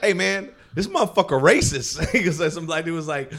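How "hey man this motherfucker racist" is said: high, mock heckler voice; imitating a heckler. Comic imitating an audience member heckling, high mock voice. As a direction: call him out like an offended audience guy. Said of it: "audience members was like".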